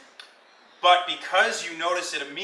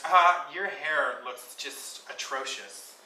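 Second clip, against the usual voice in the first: snooty insult; slower than usual. Acted. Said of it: "and says".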